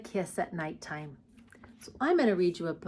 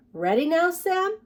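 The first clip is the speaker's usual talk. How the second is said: higher, sing-song mama voice; gentle mother bear; 10 semitones higher, 5 dB louder than usual. Acted. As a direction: coax the cub toward sleep. Mother bear asks her cub.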